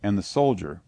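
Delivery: ordinary delivery, nothing marked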